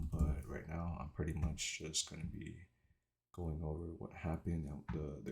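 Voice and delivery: slight retainer lisp; wearing a retainer. Real, not acted. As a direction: speak with retainers in. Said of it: "it's 'cause I have my retainers in".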